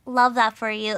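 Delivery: loud mock-preppy catchphrase; imitating a mother poking fun; mom's teasing mimicry. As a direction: tease by parroting it loudly. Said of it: "It was a joke now".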